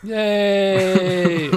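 high excited yay; cheering. Real, not acted. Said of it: "he's just cheering".

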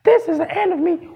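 high, slow, whiny mock panic; squeaky nonsensical wail; squeaky panicked voice. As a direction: squeak it out like it's the end of the world. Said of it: "in your squeaky, nonsensical voice".

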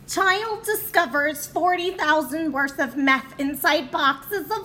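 put-on Julia Child voice. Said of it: "Kim done turns into, like, uh, Julia Childs".

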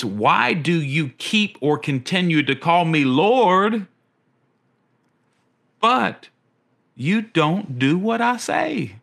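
a gentle but pointed question, slowed down; Jesus questioning with emphasis. Retold or imitated. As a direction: press the question slowly like Jesus. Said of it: "said it with emphasis".

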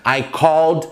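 I called the police, spoken slowly and clearly; careful slow teacher model; slow model sentence. Shown as a demonstration. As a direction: dictate it slowly to learners. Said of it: "Eu chamei eles, a polícia".

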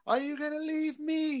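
retold yell. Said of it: "And she yelled".

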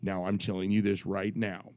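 lightly imitated official laying down facts; a hint of officious gravity; authoritative commissioner. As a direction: insist like a by-the-book commissioner. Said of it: "I'm doing his voice".

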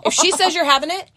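lightly voiced bossy nurse laying down the law; stern nurse. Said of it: "like, the Trunchbull".

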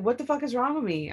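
exasperated. Retold or imitated. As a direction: recount a frustrated, bewildered outburst. Retold upset reaction to betrayal.

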